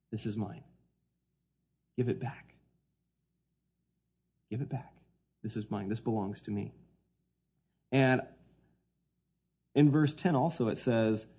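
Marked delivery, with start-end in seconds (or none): 0.1-6.7 softer, hushed and firm; quiet voice of God. Acted. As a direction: say it low and quiet, like God claiming what is his. Preacher voicing God reclaiming tithe.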